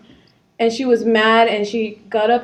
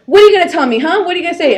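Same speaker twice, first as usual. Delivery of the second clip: mock confrontational; 6 semitones higher, 8 dB louder, much faster than usual. Angry woman confronting her.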